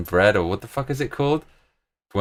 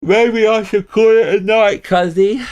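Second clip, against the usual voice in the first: mock weary sigh; 12 semitones higher, 5 dB louder, slower than usual. Real, not acted. Sudden drawn-out high line.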